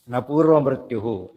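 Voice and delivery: slow, measured Sanskrit phrase; verse recitation. Real, not acted. Teacher returns to the verse, slow recitation. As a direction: recite it with lengthened syllables.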